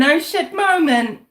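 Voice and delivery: imitating her. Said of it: "she'll say".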